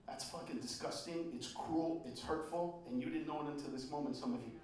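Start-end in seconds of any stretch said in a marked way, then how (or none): none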